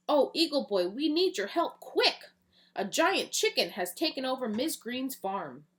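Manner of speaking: high urgent pleading call; panicked mayor. Acted. Mayor phoning Eagle Boy for help, high and urgent. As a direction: beg the hero for help, rising to a squeak on quick. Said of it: "got a call from the city mayor".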